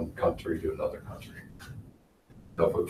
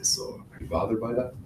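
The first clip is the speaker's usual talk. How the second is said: very soft, higher-pitched question; 4 semitones higher, 9 dB quieter than usual. Shown as a demonstration. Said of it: "give a really soft voice".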